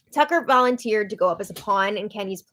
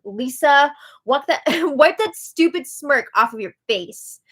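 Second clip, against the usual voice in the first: mock scolding, slightly raised pitch and volume; imitating a jab; 4 semitones higher, 4 dB louder than usual. Angela jabs at Lisa in passing, mock scolding. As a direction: play-act a pointed dig at a rival. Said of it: "she tells her in passing".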